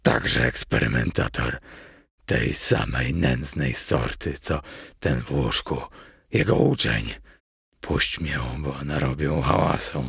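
low, contemptuous villain growl; low, dragging, scornful character voice; seething mutter. A narrator's reading. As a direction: mutter with suppressed rage, pitched low. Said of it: "pieniąc się z wściekłości".

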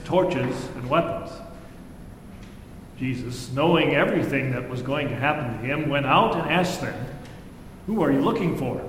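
measured, solemn Bible reading; scripture reading. Acted. Pastor reading John's Gospel to the congregation, solemn. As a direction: read the Gospel aloud to the congregation.

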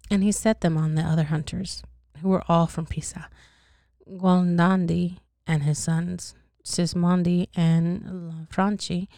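lightly acted first-person tragic tale; measured read-aloud storytelling; story narration. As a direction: tell the grim story steadily to a listener. Reads the dream tale aloud.

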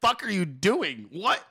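hammed-up shock at a bizarre mistake; rising mock outrage; mock outraged disbelief. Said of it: "Your whole shit's gonna be like".

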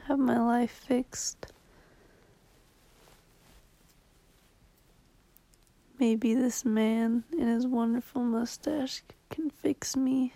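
wistful whisper. Real, not acted. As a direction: whisper it half-joking. Wistful late-night joke.

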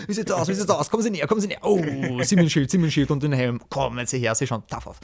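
lightly voiced fish market crier; Günther the market crier. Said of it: "Günther der Marktschreier".

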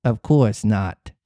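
slow sinister echo; lightly voiced cat echoing; cat repeating. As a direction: echo it slowly like a creepy cat. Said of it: "repeated the cat".

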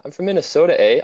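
high-pitched Minnesota accent impression; mock Minnesota accent. Guest showing his favourite American accent, mock Minnesotan. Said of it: "I like that accent the most".

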